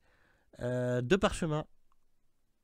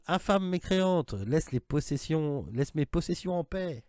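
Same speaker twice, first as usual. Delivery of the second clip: higher, slow ghostly voice; voice from beyond the grave; 5 semitones higher, slower than usual. Acted. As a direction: intone it like a ghost from a tomb. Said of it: "une espèce de voix d'outre-tombe".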